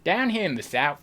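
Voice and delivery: southern accent, getting closer. Shown as a demonstration. Streamer practising after failed tries, southern accent. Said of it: "that was closer".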